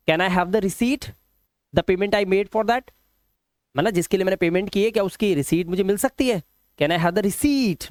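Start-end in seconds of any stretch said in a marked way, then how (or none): 0.1-2.9 very slow, careful English; slow model sentence. Shown as a demonstration. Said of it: "आप ये बोलेंगे". 6.8-7.9 very slow, with receipt said as ri-seet; slow model sentence. Shown as a demonstration. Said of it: "ना कि रिसिप्ट".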